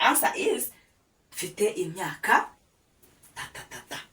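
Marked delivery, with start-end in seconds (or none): 3.3-4.0 soft placeholder syllables. Shown as a demonstration. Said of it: "So there you put your age".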